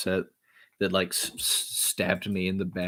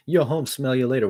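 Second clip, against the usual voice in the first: louder, higher punch; punchy line; 5 semitones higher, 4 dB louder than usual. Shown as a demonstration. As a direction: hit it with energy. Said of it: "what if I kinda paused".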